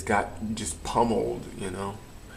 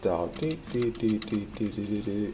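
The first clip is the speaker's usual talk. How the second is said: tone imitation; 3 dB quieter than usual. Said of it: "and make sounds on it".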